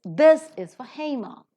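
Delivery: for said without r before Hema, this lifted loud; no linking r. Shown as a demonstration. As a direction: drop the r in for. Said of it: "ra is not present".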